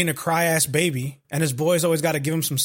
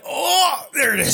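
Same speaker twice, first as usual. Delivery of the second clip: excited recognition; 10 semitones higher, 3 dB louder, slower than usual. Retold or imitated. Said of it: "I was like".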